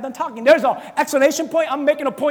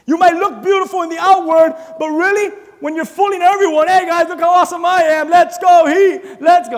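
loud mock boasting; 3 semitones higher, 5 dB louder than usual. Mocking boastful Pharisee.

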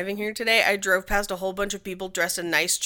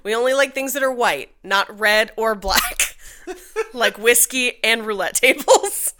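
laughing; 4 dB louder than usual. Pretend. Joking in the realtor's voice.

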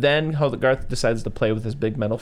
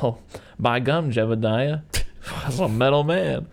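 hillbilly brother; 2 semitones higher than usual. Retold or imitated. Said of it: "those two brothers ... being like".

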